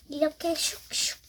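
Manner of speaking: whispered all through, no voice. Real, not acted. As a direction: breathe the words out with no voice. Folding while talking.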